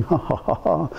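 soft mock "ha ha ha"; imitated laughing. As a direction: act out the man's laugh, lightly and quietly. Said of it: "The guy starts laughing".

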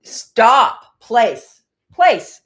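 sharp loud commands to a dog, pitch jumping up. Real, not acted. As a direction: order the dog to its place.

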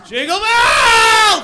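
very high, very loud, slow wailed shout; drunk yelled carol. Retold or imitated. Drunk man wailing carols outside ex's house, shouting. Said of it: "naked with a bottle ... going".

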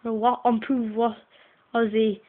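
reading homework aloud in a put-on French accent; a light French accent, reading slowly. Girl reads her French homework to viewers, in a French accent. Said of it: "Here comes my French accent".

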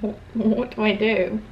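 retold helpless question, soft and stammered; lost, helpless. Vlogger retelling being left alone in her room, quietly lost. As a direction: softly replay being at a loss.

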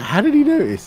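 high-pitched retold disbelief; mildly hammed-up astonishment; incredulous question. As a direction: ask it baffled, pitch shooting up. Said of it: "I was like".

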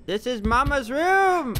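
high, drawn-out announcement; hammed-up exclamation. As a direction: wail it out, pitched high and stretched. Repeats it calling out.

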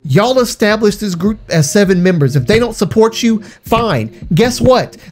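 angry rant. Real, not acted. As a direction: let the anger climb, voice up. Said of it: "I'm sorry if I yelled a little too much".

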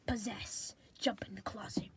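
unvoiced sneaky whisper. Sneaking killer whispering a plan to himself. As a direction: whisper it so no one hears.

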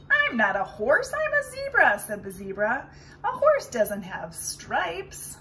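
loud, high indignant zebra. Acted. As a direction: protest loudly like a zebra. Zebra corrects Roy.

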